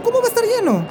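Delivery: high, incredulous question; can't believe the plane is full; surprised disbelief. Acted. Passenger told flight is full.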